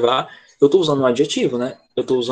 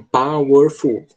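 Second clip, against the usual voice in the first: counting syllables; 3 dB louder, much slower than usual. Shown as a demonstration. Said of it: "nós temos três".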